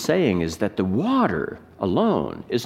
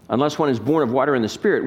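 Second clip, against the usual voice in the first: quick, even reading with no word stressed; read without inflection; faster than usual. Shown as a demonstration. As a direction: rattle it off evenly, no emphasis. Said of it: "We read it without inflection".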